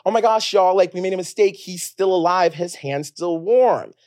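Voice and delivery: loud, high, eager announcement; excited child announcing. Retold or imitated. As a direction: blurt it out to the whole room like a thrilled kid. Child announcing dad still alive.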